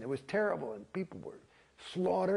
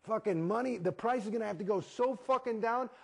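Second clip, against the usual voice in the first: heated rant; 7 semitones higher than usual. Real, not acted. Ranting about the prices.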